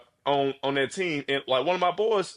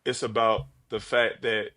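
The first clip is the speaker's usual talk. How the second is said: motivational speech; 2 semitones lower than usual. Pretend. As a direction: speak like a coach lifting up a friend. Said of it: "give me the best motivational speech".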